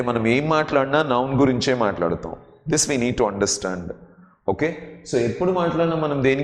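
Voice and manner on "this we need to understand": slow and low, stressing each word; slow teacher emphasis; slow emphatic English. Shown as a demonstration. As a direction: lean on it slowly so it sinks in. Teacher slows for English line.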